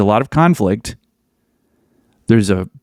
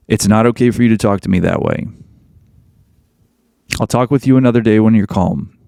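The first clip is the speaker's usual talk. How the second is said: calm firm boundary. Shown as a demonstration. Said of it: "When she's trying to get you".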